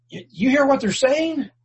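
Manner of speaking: high, huffy outraged demand; mock outraged religious leader; indignant priests. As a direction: sneer it like an offended priest.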